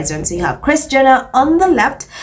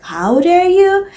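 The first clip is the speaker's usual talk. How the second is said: high drawn-out mock indignation; mock outrage; 8 semitones higher, slower than usual. Vlogger parodying royal fans' outrage, high and slow. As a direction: ham up the shocked fan. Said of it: "It's like".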